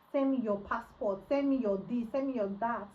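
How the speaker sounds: loud, rattled-off list of demands; mock insistence. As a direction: imitate a pushy big-talker, loudly. Mimics man's repeated demands for documents.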